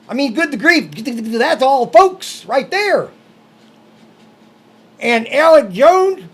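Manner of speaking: high, bouncing comic character voice; Mister Wiggins impression. Co-host makes his point about YouTube people, comic impression. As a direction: keep ranting in a sing-song sketch voice. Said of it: "Can you do that in another voice?".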